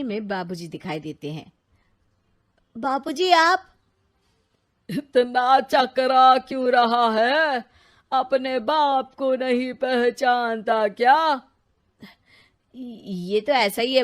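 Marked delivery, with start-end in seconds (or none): 2.8-3.7 shocked. Acted. Father appears on the TV. 4.9-11.4 stern father. Acted. Father's voice scolding son.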